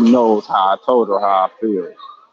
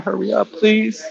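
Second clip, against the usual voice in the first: raised repeat; 10 semitones higher than usual. Real, not acted. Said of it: "I said".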